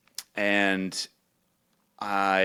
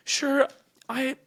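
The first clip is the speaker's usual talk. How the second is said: high voice broken by laughter; laughing mom impression; 13 semitones higher, 3 dB louder than usual. Mom listing stereotypes, high and laughing. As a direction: giggle through mom's clueless reasoning. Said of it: "she was like".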